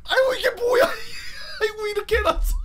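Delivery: put-on high, loud wailing old-lady cry; shocked grandmother. Grandmother seeing the bandage, high laughing lament. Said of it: "할머니도 그런 걸 처음 본 거야".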